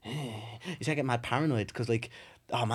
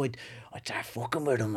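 whisper; 5 semitones lower, 6 dB quieter than usual. Retold or imitated. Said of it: "they were all going".

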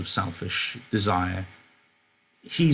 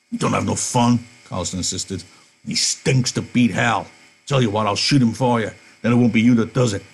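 loud disgusted Carlson; 4 dB louder than usual. Acted. Carlson ordering Candy to remove the stinking dog, loud. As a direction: shove the complaint at him.

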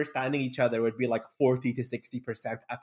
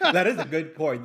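laughing; 3 semitones higher than usual. Real, not acted.

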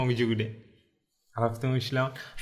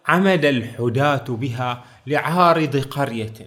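slow, measured recital of a verse; slow Arabic verse recital; poem recitation. Retold or imitated. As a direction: recite the line slowly like classical poetry. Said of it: "قال".

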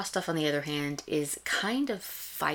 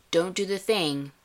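higher, louder warning as Steve; mock Steve warning; 4 semitones higher, 5 dB louder than usual. Host imitating Steve warning his team, mock stern. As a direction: wag a finger at the team, Steve-style. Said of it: "of Steve saying".

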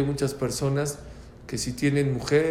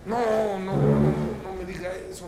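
mock-tearful, pleading protest; imitated crying; 4 semitones higher, faster than usual. Father told the baby is blind, acting tearful dismay. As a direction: act out a father breaking down. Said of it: "Empezó a llorar".

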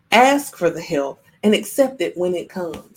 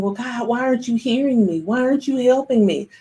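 higher-pitched, mildly whiny plea to God; complaining prayer; 5 semitones higher than usual. Retold or imitated. Stranded man asks God why he isn't helping, mildly complaining. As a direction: lightly act out a frustrated prayer. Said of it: "then you start praying".

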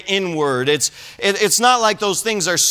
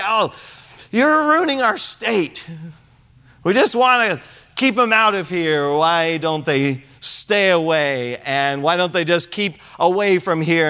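mock local complaint. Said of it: "people will say".

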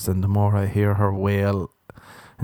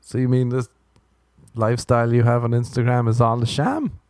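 mock astonished. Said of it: "And you're like".

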